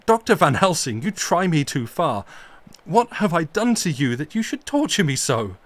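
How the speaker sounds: loud passionate fury defending her grave; storm of passion. Acted. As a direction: rage and plead against the desecration. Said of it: "cried Arthur in a storm of passion".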